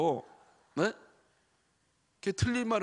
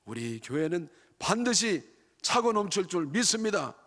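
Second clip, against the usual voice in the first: hopeful prayer leader. Retold or imitated. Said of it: "그러지 말고".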